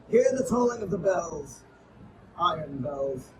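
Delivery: dark, brooding poetry reading; solemn poem recital. Acted. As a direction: toll the words like a funeral bell. Mournful tolling stanza.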